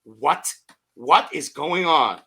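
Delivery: slow, drawn-out amazement; stunned disbelief. Retold or imitated. Fan flipping the game back on, stunned disbelief. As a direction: stretch it out, dumbfounded.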